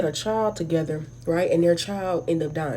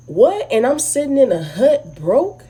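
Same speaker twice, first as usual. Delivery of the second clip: disbelief; 3 semitones higher, 5 dB louder than usual. Real, not acted. Reacting in disbelief to the story.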